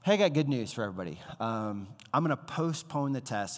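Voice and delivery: quick, bright mock announcement; cheery teacher. Greek teacher announcing to the class, brisk mock cheer. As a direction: rattle off the good news like a cheerful teacher. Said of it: "the teacher's like".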